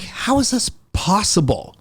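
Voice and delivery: high-pitched incredulous question; retold disbelief. Man retelling his reaction to DNA results, mock disbelief.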